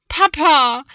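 high, loud plaintive cry for dad; plaintive call. A narrator's reading. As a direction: call out, close to tears. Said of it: "klingt es schon etwas kläglicher". (kläglicher, hoher Ruf)

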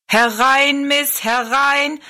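loud, slow showman's call; barker calling in. Acted. Showman at the tent door calls Rosalie in, loud and slow. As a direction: call the crowd in like a fairground barker. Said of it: "rief er Rosalie zu".

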